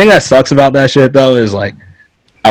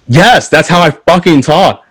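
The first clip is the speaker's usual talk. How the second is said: slow, higher, emphatic comeback; exasperated retort; 6 semitones higher, slower than usual. Retold or imitated. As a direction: spell it out slowly, as if fed up. Exasperated retort in a retold quarrel.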